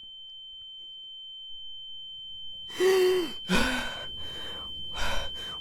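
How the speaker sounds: long, high gasp of coming back to life; sharp revival gasp. Acted. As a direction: gasp awake as if from death. Wakes up after death.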